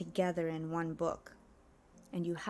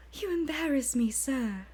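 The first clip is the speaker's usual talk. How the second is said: much higher, coy, prim falsetto maid voice; 6 semitones higher than usual. Acted. Argonian maid fending off her master in a high, coy voice. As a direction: play the shy maid protesting sweetly.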